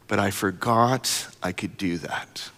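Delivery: put-on child's words. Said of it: "repeats child's line".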